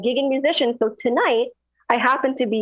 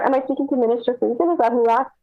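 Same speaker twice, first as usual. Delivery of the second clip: muffled, like a hand over the mouth; 2 semitones higher, faster than usual. Real, not acted. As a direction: speak through a covered mic. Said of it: "your mic is a little muffled".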